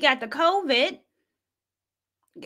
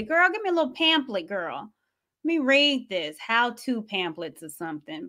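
sassy mock request; 3 semitones lower than usual. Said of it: "asked this little lady".

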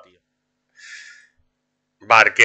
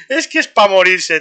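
higher, slower, louder and fed up; real exasperation at the game; exasperated disbelief; 8 semitones higher, 5 dB louder, slower than usual. Real, not acted. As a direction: stretch it out in disbelief. Exasperated at his bad luck.

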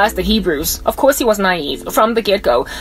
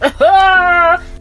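a high, bright burst of laughter; amused laugh; 7 semitones higher than usual. Real, not acted. Preacher laughing at his dig at South Africa. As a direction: laugh at your own joke.

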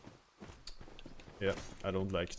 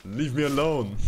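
real exclamation; 6 semitones higher, 9 dB louder than usual. Real, not acted. Playfully yelling at attacking tree.

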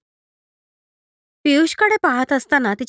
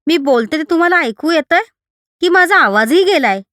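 higher, louder panicked question; आवाज गेल्याच्या भीतीने घाबरलेला प्रश्न; frightened plea; 5 semitones higher, 4 dB louder than usual. Acted. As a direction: ask it in rising fear. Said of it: "ती घाबरली".

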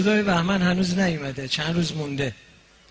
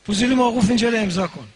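stern interrogator order; 3 semitones higher, 3 dB louder, faster than usual. Acted. Interrogator snaps at the suspect.

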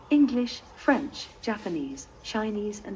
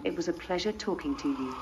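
polite British English accent; 5 dB quieter than usual. Shown as a demonstration. Robot retrying its sign-off on request, in a British accent. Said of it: "Use your British accent".

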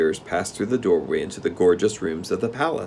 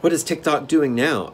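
put-on higher-pitched, mildly worried girl; uneasy; 7 semitones higher than usual. A narrator's reading. Girl asks the king after her friend, mildly uneasy. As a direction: ask with a touch of unease. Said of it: "asked the girl uneasily".

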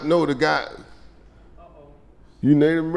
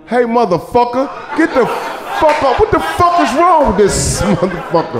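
high, loud mock yell at a kid; exaggerated scolding of a six-year-old; 9 semitones higher, 3 dB louder than usual. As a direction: bark at the little boy, hammed up. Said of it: "what you say to a six-year-old".

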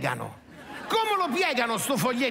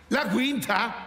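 worried patient; 3 semitones higher, slower than usual. Acted. Patient confused at chart.

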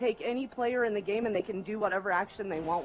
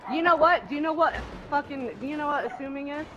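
angry shouting; 6 semitones higher than usual. Real, not acted. Furious lecture at accuser.

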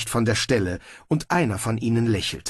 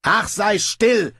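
loud, high, exasperated rebuke; snapping; 10 semitones higher, 5 dB louder, slower than usual. A narrator's reading. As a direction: shut the ruler up, stretching the words. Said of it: "schnauzte Snibrill". (genervt angeschnauzt)

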